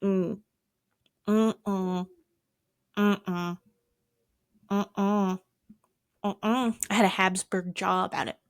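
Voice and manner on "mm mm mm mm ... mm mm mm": refusing hums. Retold or imitated. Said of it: "and me going".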